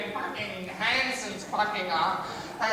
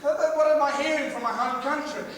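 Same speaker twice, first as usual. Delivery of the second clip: higher-pitched mock dismay; acted dismay; 5 semitones higher, 4 dB louder than usual. Comic imagining hearing news from home, acted dismay. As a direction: voice your own appalled thoughts.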